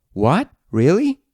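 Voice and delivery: mock shock with a high rise; imitating disbelief. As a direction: echo the shocked reaction lightly. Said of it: "show shock or disbelief".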